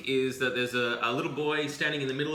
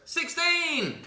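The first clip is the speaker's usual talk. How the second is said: man yelling. Acted. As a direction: shout it while jumping. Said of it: "he goes".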